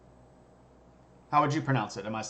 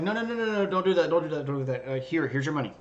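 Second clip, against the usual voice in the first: panicked emperor; 3 semitones higher, faster than usual. Retold or imitated. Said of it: "And they're like".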